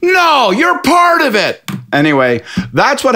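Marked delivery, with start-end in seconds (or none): 0.0-1.6 high, slow, drawn-out mock question; conspiratorial drunk. Drunk pub guy quizzes Scott, slow mock conspiracy voice. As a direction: lean in like a drunk with a secret theory.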